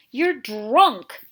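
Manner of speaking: loud yell. A narrator's reading. Catherine yelling at the drunk sheriff. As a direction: yell it right at him. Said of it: "she yelled".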